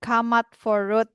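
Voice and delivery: "Come out for road" said slowly as "kamat for rut"; pelafalan pidgin. Shown as a demonstration. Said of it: "Ngomongnya jadi". ("Come out for road" dilafalkan "kamat for rut" ala pidgin)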